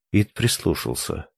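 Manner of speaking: usual speaking voice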